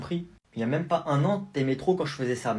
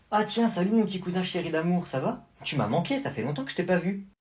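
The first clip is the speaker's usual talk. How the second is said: fake sweetness; 4 semitones higher than usual. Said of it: "pourquoi tu parles comme ça".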